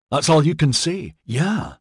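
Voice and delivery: high, indignant retort; mock the feeble answer; scornful disbelief. A narrator's reading. Maxon scorns the one-word answer.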